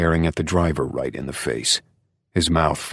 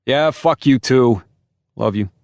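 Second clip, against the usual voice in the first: high, loud, slowed affectionate jab; fond insult, New York Italian; slow New York Italian banter; 8 semitones higher, 6 dB louder than usual. Acted. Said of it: "thick New York Italian accent".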